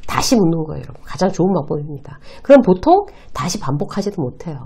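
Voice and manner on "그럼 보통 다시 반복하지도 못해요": ordinary talk, nothing marked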